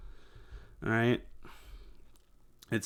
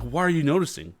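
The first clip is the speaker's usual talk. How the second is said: higher, rattled, defensive outburst; mock freak-out; 5 semitones higher than usual. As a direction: play a caught-out person panicking. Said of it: "And they freak out".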